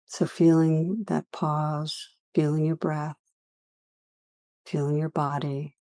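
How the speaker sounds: unhurried meditation guiding with long pauses; guided meditation. Real, not acted. Teacher leading listeners through a practice on judgment, guided meditation. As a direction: lead listeners gently inward, leaving long silences.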